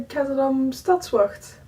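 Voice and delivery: Stadswacht said the Dutch way, stat-svacht with a throaty ch, slowly; Dutch pronunciation. Shown as a demonstration. Explaining a city guard name to viewers, Dutch pronunciation. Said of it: "Oh, that's a word".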